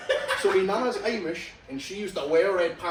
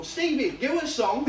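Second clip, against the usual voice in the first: mock heckle to a celebrity; pushy fan; 5 semitones higher, slower than usual. A fan bumping into a famous singer, pushy calling out.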